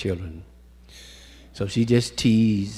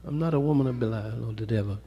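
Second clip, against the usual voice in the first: pleading woman; 4 semitones higher, 5 dB quieter, faster than usual. Retold or imitated. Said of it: "So she said".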